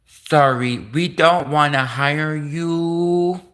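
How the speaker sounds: slow, drawn-out put-on refusal; a hint of a smug employer saying no; dismissive interviewer. Interviewer turning down the Chinese-speaking Canadian, slow put-on refusal. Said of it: "the Chinese people are like".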